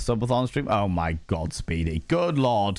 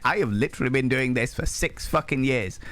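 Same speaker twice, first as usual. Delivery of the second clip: building from indignant to high, hammed-up shrieking fury; mock outrage; 9 semitones higher than usual. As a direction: play the wounded streamer, escalating to a shriek. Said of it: "instantly so offended".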